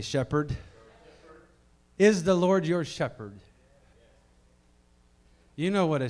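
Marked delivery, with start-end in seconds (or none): 0.0-0.6 louder repeat. Shown as a demonstration. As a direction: say it again, with more push. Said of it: "Say it again".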